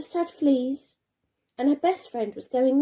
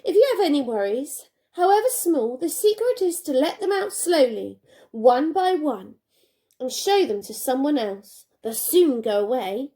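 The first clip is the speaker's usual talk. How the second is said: a touch louder, kindly but firm; firm old lady; 3 dB louder than usual. Acted. Old lady encouraging Jenny to open the bag, firm and kind. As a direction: reassure firmly like a wise neighbour. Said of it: "said the old lady firmly".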